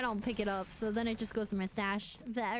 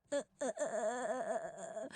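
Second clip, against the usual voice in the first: breathless laughing; 3 semitones lower, 4 dB quieter than usual. Real, not acted. Helpless laughter.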